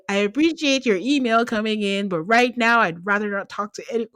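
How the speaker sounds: lightly voiced polite auto-reply; a hint of corporate politeness; mock formal email voice. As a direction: read it like a stiff out of office note. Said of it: "sounds like an out of office signature".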